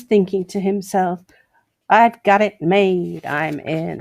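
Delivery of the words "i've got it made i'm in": lightly put-on American accent; a hint of a smug American. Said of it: "you like my American accent?".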